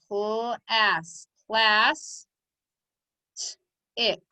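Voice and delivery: "t-ick" with the first sound held apart from the rest. Shown as a demonstration. Teacher breaking the code for pupils, sounding out. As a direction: stretch the opening sounds, then blend them into "class". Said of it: "Let's break the code".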